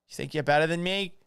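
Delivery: mock-indignant Boston tough guy; Boston accent. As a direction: start squaring up in a Boston accent. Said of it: "Paul doing a Boston accent".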